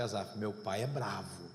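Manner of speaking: put-on child's reply. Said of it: "e fala assim".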